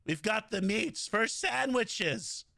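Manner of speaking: slow, lightly deepened ad read; H. Jon Benjamin voice. Retold or imitated. Streamer doing the Archer voice's Arby's line, slow. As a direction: drawl the Arby's slogan slowly. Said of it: "the Bob's Burgers Sterling Archer voice".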